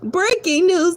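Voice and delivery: mock news anchor.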